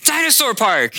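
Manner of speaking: put-on high, loud child's insistence; excited little girl. Daughter insisting to her confused dad, excited and high. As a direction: repeat it eagerly like a toddler. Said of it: "she goes again".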